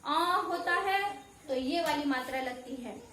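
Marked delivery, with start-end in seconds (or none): 0.1-1.2 आ होता है drawn out slowly; teacher slowly showing the आ sound; slow demo. Shown as a demonstration. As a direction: let the vowel आ ring slowly. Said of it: "तो आपको ध्यान देना है".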